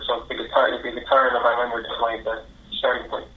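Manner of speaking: distant from the phone; far from mic. Real, not acted. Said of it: "'Cause it sounds like you're far away".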